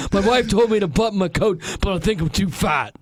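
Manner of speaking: a better try at Bernie; Bernie Sanders. Acted. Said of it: "it's more like this".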